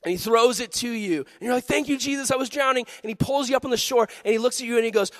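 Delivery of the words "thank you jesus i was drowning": higher-pitched grateful outburst; mild mock gratitude. Rescued swimmer thanking Jesus, mildly excited. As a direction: lightly act out being rescued. Acts out rescued drowning person.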